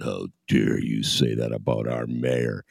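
slow, mock offended outrage; a lightly voiced huffy editorial voice; mock indignant newspapers. Newspapers scolding a politician, lightly mocked huffy tone. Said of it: "the Sun-Times and the Tribune hammered him and said".

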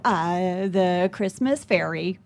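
slow, stalling made-up answer; deer in headlights. Retold or imitated. Mom improvising for her daughter, deer in headlights. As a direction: stumble into it, dragging out the words. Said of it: "I was deer in headlights".

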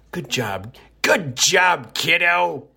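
mock old-timer "Good job, kiddo" in a lifted put-on voice; older folks' praise. Host praising a listener in a mock old-timer voice. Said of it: "as us older folks say".

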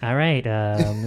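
slow, measured public radio delivery; understated radio host parody; NPR host voice. Pretend. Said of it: "you got a pretty good N P R voice".

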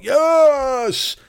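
a sudden high yelp of delight; high, thrilled Yes; excited yes. Acted. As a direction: leap up on it like a starving man given sauce. Earl delighted by mustard.

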